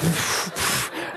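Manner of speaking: soft puffed whooshing sounds; imitated noise. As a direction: blow out little puffs to mime it. Imitating the guard acting out dripping.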